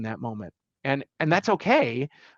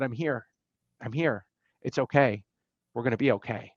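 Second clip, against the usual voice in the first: reassuring; 3 semitones lower than usual. Retold or imitated. Comforting brother, hand on shoulder.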